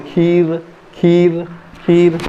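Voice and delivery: खीर with a lingering long vowel; long ee demo. Shown as a demonstration. Teacher demonstrating the pause on the vowel, खीर with ee drawn out. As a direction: hold the ee in खीर. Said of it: "जो यहाँ पे जीवा रुक रहे".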